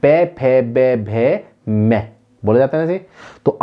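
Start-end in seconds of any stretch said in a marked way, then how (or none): 0.0-2.0 पे फे बे भे मे, slowing on भे मे; teacher demonstrating पे फे बे भे मे; syllable demo. Shown as a demonstration. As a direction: show पे, फे, बे with each lip sound clear. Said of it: "देखिए".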